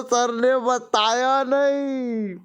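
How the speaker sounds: a hint of a stranded student, slow and pleading; lightly voiced student, stuck up the tree with the tiger; panicked student. Student up a tree, blaming sir, mildly mock-pleading. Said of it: "और तुम बोलो".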